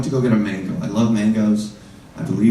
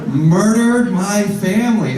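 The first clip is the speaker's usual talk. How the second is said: slow grave accusation; 7 semitones higher, 4 dB louder, slower than usual. Acted. Fruit seller repeats the accusation.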